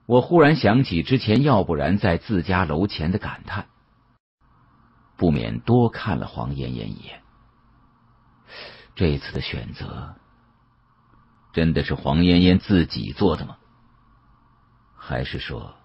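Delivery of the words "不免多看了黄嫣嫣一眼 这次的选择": ordinary delivery, nothing marked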